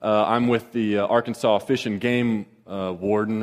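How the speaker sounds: a hint of a polite officer detaining you; professional voice. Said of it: "in his professional voice".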